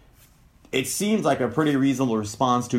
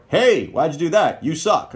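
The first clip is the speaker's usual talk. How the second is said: sharp, louder accusing jab; harsh criticism; 4 semitones higher, 4 dB louder than usual. Shown as a demonstration. Partner accusing over a mistake, sharp and loud. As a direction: snap it like an irritated partner.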